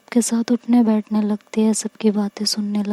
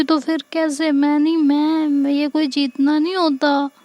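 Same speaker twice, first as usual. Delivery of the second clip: put-on stubborn childlike refusal; 5 semitones higher than usual. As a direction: pout it out like a child who won't take her pill. Ishika explains, childlike.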